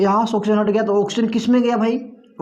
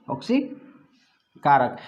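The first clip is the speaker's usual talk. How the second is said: slow emphasis; 4 semitones lower, 3 dB quieter, much slower than usual. Shown as a demonstration. Teacher stressing key answer term.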